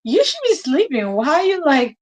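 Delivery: upset. Retold or imitated. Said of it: "I got so upset".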